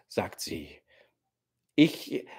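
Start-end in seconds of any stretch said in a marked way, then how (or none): 1.8-2.2 hesitant start, left hanging; begin, then stop short; an unfinished, faltering opening; breaking off. A narrator's reading. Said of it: "sagt er und bricht ab".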